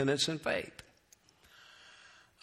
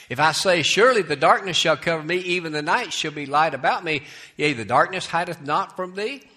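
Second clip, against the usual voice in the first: raised, ringing verse reading; scripture reading; 4 semitones higher, 5 dB louder, faster than usual. Acted. Preacher reads David's psalm to congregation, declaimed scripture.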